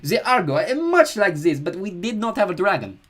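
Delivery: slow, hesitant brute voice; vain dim warrior. Acted. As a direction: ponder it slowly like a lunkhead.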